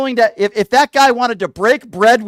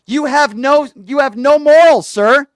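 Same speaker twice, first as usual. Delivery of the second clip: louder, rising scold; angry outburst; 4 semitones higher, 4 dB louder, slower than usual. Real, not acted. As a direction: spit out the accusation. Host berates guest angrily.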